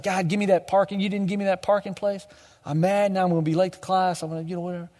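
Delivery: a hint of a petulant student, mildly whiny; complaining to God about a parking place, a touch sulky; whiny grumble. A student grumbling to God about parking, mildly whiny. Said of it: "It's like".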